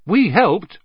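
quick and eager. A narrator's reading. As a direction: jump in to claim credit. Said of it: "Ron said quickly".

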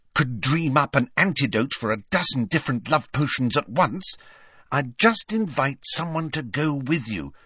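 high-voiced know-it-all student; Hermione. A narrator's reading.

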